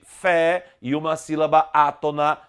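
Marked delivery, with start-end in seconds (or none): 0.0-0.7 fé said strong and drawn out; strong stressed syllable. Shown as a demonstration. Teacher showing the tonic syllable of café, fé strongly stressed. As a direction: give fé the full stress. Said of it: "que é a mais forte".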